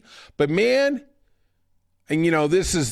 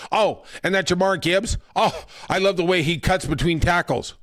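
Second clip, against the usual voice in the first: lightly mocked gushing commentator, slightly higher; hammed-up adoration of a player; Tom Brady; 3 semitones higher than usual. Announcer raving about a running back, mock gushing. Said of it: "do my Tom Brady imitation here".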